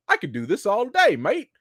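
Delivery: mock British Peggy. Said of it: "When she was like".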